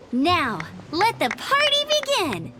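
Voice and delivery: drawn-out, rousing kickoff; festive proclamation. Acted. Opening the party for everyone, festive. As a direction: proclaim it slowly to the whole room.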